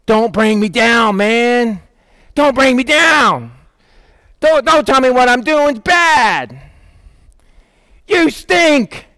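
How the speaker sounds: mildly hammed-up anger; mad. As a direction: act out an annoyed crowd, drawing out the complaints. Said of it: "They were mad at him".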